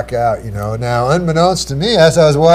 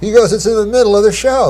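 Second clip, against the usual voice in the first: excited producer; 5 semitones higher than usual. Retold or imitated. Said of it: "Like, he's really excited".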